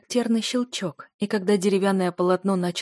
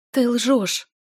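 voice trembling; 5 semitones higher, 5 dB louder than usual. A narrator's reading. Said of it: "Мой голос дрогнул".

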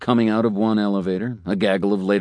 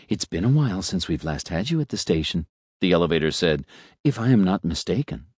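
suave talking elevator. Acted. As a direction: purr it like a polite elevator making small talk. Elevator character voice.

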